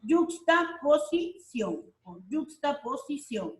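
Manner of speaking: yuxtaposición drawn out slowly; slow term. Shown as a demonstration. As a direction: spell out yuxtaposición for the class. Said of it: "están formadas por". (yuxtaposición, lento y marcado)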